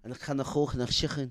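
put-on Irish accent, guttural k sounds; mock Irish accent. Podcaster showing off his Irish to a friend, mock Irish accent. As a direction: have a go at an Irish brogue. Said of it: "my Irish accent was on point".

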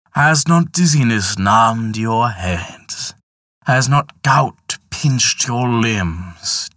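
slow, solemn Death voice; grim reaper voice. Acted. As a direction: list each omen slowly, gravely. Death solemnly lists his messengers.

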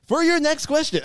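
big, high announcer voice; game show host voice. Pretend. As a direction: boom it out like a TV quizmaster. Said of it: "that's a bit extreme".

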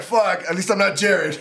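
laughing. Retold or imitated. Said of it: "You're like".

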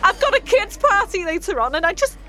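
tearful. Acted. Magician despairs over lying.

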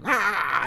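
high-pitched imitated toddler scream; mock scream. Son grabbing dad's face, mock scream. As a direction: mimic a small kid's scream, not full volume. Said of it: "and screams in my face".

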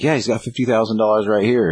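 put-on naive eager kid blurting it out; eager sidekick Luke.

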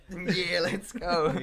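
hyped up. Retold or imitated. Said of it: "controlling me down, like".

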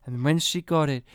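lightly voiced nostalgic mother; sentimental mum. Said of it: "she gave this speech".

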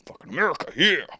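high put-on whoop; hammed-up, rising hurrah for the country; mock patriotic cheer. Host cheering America as a joke, mock patriotic.

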